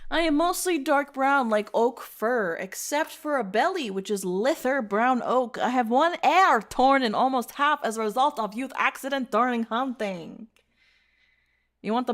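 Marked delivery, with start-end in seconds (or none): 0.1-10.5 a light, bad Eastern European accent read aloud; lightly voiced Eastern European wolf; half-hearted Eastern European accent. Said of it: "doing an Eastern European accent".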